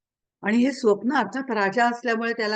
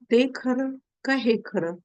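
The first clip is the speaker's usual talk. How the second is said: slow, higher-pitched, lightly acted riddle; pondering question; 4 semitones higher than usual. King to the sage Ashtavakra, pondering question. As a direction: pose the question slowly and deliberately.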